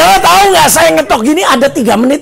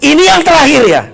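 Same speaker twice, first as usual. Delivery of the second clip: raised, high final warning; stern warning; 5 semitones higher, 4 dB louder than usual. Acted. Teacher granting last chance, sternly. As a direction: relent with a loud, stern caution.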